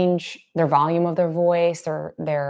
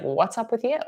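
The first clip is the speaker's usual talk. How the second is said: lightly voiced questioning dog, higher; higher, mildly puzzled query; puzzled dog's voice; 6 semitones higher than usual. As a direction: ask like a baffled dog, pitched up.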